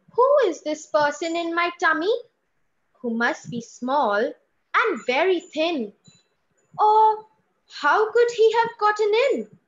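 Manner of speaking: put-on child's voice. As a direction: ask it like a wondering small child. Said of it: "voice modulation from mummy to child".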